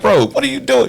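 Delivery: high-pitched "what are you doing" in disbelief; incredulous. Retold or imitated. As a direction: ask it like you can't believe him. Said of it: "I was like".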